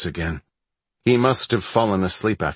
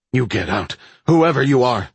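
shouting; 6 semitones higher, 5 dB louder than usual. Acted. Ordering intruder out at gunpoint.

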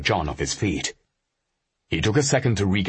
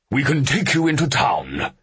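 higher, louder officer voice; curt offer from the officer; Vogel's voice; 10 semitones higher, 4 dB louder than usual. A narrator's reading.

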